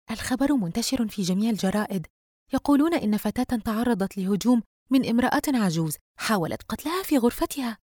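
lightly voiced friend, pitch climbing; gossiping best friend. Friend tells Yusra news of an attack, animated. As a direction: relay the shocking news with rising pitch.

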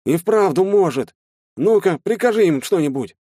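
high, loud, excited urging; amazed. Acted. Shtalin urges Klim to command the ants, excited. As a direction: egg him on, thrilled.

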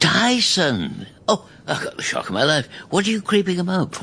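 high, fast, shocked scolding; startled outburst. Acted. Grandad startled by grandson creeping up, shocked. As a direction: jump out of your skin and scold.

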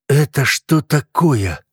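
drawn-out rasping disbelief; hoarse croak. A narrator's reading. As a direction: croak it out in dismay. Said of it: "прохрипел он".

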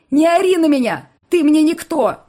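very high, very loud screaming; hysterical shout. Acted. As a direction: scream him away. Irma screaming at Alex.

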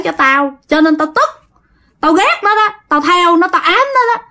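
lightly acted possessed man, high and indignant; possessed man's retort. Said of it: "anh Kiệt mới trả lời rằng á".

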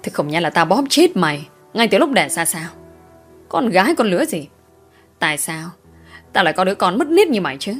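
growling angry scold, rushing at the end; growling father. Acted. Father growling at his wayward daughter, angry. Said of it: "Giọng của ông Năm gầm gừ".

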